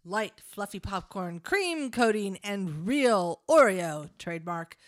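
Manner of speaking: hammed-up commercial announcer, laughing through it; ad read. Cohost reads the popcorn bag as a mock commercial.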